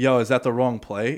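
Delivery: normal talking voice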